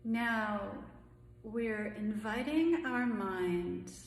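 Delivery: calm, unhurried meditation voice with long pauses; guided meditation. Acted. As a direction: gently guide them through each breath, leaving room between phrases.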